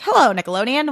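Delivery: lightly voiced eager little creature; Tiny Chef. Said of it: "He gets a call and he's like".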